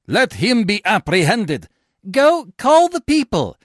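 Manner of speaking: high, loud order; loud commanding. Acted. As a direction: bark the arrest order. Tribune orders arrest.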